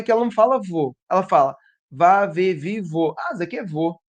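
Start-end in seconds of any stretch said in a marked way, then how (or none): 1.9-3.1 evenly spaced syllable-by-syllable recital; reciting the sequence. Acted. Teacher imitating a child searching for vô, step-by-step recitation. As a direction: count through the syllables until the right one. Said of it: "Ela vai falar todas as sílabas".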